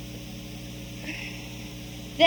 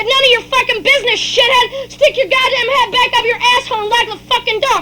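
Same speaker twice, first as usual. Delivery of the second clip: angry yelling; 6 semitones higher than usual. Acted. Father yelling at nosy neighbors, angry yell. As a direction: tell them off at full voice.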